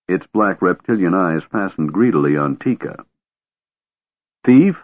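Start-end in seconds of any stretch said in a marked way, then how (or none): 4.4-4.8 high, loud indignant cry; indignant shout. Acted. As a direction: yell it out, outraged. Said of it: "shouted Tass indignantly".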